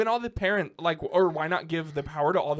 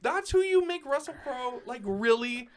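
laughing disbelief; 8 semitones higher, 6 dB louder than usual. Real, not acted. Gushing in disbelief about Russell Crowe.

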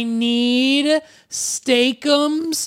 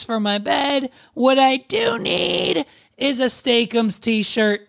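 booming prize announcer; 5 semitones higher than usual. Acted. Hyped repeated declarations.

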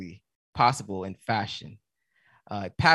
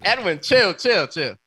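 fighting laughter; 7 semitones higher, 7 dB louder than usual. Real, not acted. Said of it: "Don't make me laugh".

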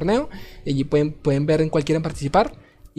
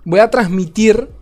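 higher, louder and slow; slow emphatic announcement; 4 semitones higher, 5 dB louder, slower than usual. Real, not acted. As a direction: drag it out like a host. Stream announcement, stretched out.

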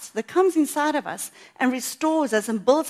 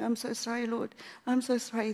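tearful apology; 7 dB quieter than usual. Retold or imitated. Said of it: "the tears are rolling down my face".

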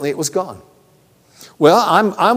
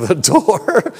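incredulous inner voice; 3 semitones higher than usual. Retold or imitated. Preacher's own mind doubts his answer, incredulous. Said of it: "part of me is like".

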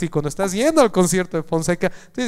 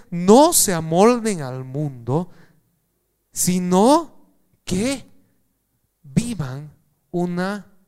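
slow, drawn-out preaching of each word; slow sermon emphasis; much slower than usual. Acted. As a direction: stretch every word for the church. Paraphrases the verse slowly.

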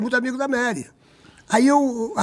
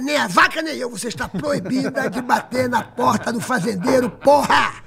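mock angry yell; 3 semitones higher, slower than usual. Farmer yelling back at the woman knocking, mock rage. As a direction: bellow him off the door.

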